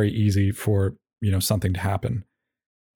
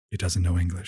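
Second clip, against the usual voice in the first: echoing away, softer each time; fading echo; 4 semitones lower, 5 dB quieter than usual. Acted. Mock echo for dog owners, fading. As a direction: let it echo off into the distance.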